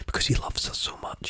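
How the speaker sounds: breathy romantic whisper. Real, not acted. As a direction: whisper it like a swooning fan. Swooning over romance.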